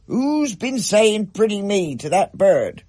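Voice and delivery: loud, high, indignant outburst; furious dad mocking the phrase; angry father. A narrator's reading. Dad rages at the family over the bird, loud indignant. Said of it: "Dad demanded".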